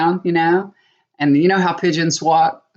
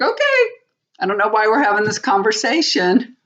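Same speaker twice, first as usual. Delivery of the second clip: sharp "Okay" leaping far higher, then dismissive; exasperated; 4 semitones higher than usual. Retold or imitated. Wife brushing off husband's repeated denial, exasperated. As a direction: done with this talk.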